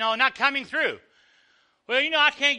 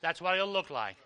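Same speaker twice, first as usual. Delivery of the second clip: soft echo; 4 semitones lower, 7 dB quieter than usual. Shown as a demonstration. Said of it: "echo of the line before".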